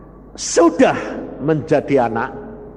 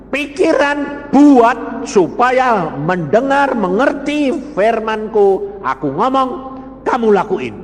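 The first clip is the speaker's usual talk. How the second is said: voicing God; 5 semitones higher, 3 dB louder than usual. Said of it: "Tuhan bilang".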